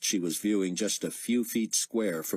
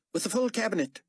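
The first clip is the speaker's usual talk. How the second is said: Carpathia voice; faster than usual. Acted. Carpathia voice continues.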